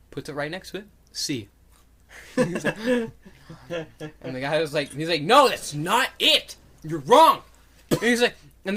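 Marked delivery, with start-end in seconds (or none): 5.2-7.4 loud, drawn-out contradiction, pitched up; mock bickering. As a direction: imitate someone flatly refusing to back down. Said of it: "bickering back and forth".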